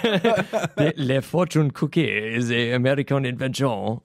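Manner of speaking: "Le, le fortune cookie" in a hammed-up French accent, le starting high; a hint of a French accent, laughing at his own attempt; mock French accent. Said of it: "but in French".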